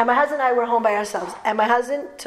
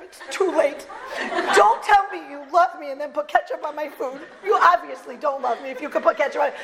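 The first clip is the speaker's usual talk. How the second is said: higher-pitched, hammed-up accusation; mock-hurt newlywed; 4 semitones higher than usual. New wife to husband over ketchup, mock hurt. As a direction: play up the wounded bride for laughs. Tearful newlywed's retort, acted comically.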